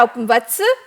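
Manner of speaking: a lightly voiced grand king of heaven, half laughing; Indra's voice. Storyteller voicing Indra to little Upamanyu, lightly grand. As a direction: play Indra calling the boy in mock grandeur. God posing as Indra addresses boy.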